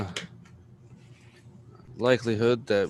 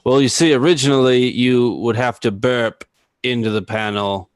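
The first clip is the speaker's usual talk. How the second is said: loud; 3 semitones higher, 10 dB louder than usual. Acted. Explains with mock gusto.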